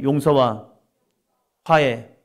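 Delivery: 용서와 and 화해 each called out loud and slow; emphatic phrase. Shown as a demonstration. Pastor calling out the key words for the congregation, emphatic. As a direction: proclaim 용서와, then 화해, as a pair of words. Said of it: "한번 다 합니다".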